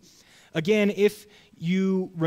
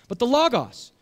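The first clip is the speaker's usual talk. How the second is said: emphatic; 8 semitones higher, 6 dB louder than usual. Real, not acted. Emphatic return to key word.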